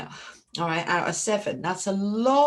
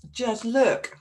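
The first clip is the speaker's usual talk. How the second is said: excited; 6 semitones higher, 4 dB louder than usual. Real, not acted. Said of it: "I'm getting all excited".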